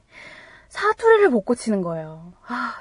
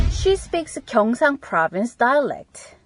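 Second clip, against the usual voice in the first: slow, careful teacher read; deliberate classroom dictation; slow model reading; much slower than usual. Shown as a demonstration. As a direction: read it out slowly for learners. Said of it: "그녀는 경상도 사투리를 쓴다".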